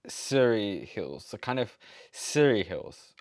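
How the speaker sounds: Surrey said sir-ee, slowly; slow mock American Surrey Hills; imitating American accent. Australian viewer copying the host's American Surrey. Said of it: "he's saying, like".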